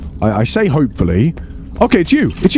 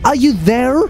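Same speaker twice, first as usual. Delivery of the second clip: high, sing-song nagging imitation; mock their repeated call in a higher voice; mimicking game characters; 8 semitones higher than usual. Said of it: "they just constantly go".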